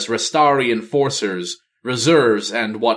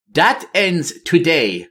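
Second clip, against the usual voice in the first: defiant queen; 6 semitones higher, slower than usual. Acted. Talanji defiant.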